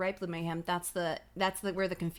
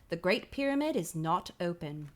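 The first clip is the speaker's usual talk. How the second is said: put-on lightly done English accent, lower; a guard stating rules in an English accent; 3 semitones lower than usual. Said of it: "I say in an English accent".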